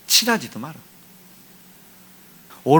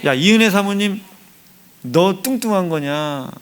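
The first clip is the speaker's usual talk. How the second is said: calling out; 4 semitones higher, 3 dB louder, slower than usual. Acted. Preacher calls out to congregant.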